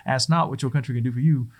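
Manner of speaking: badly faked Boston accent; light, clumsy Boston accent for a famous quote; terrible Boston accent. Speaker redoing JFK's famous line, terrible Boston accent. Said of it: "that's my terrible, uh, Boston accent".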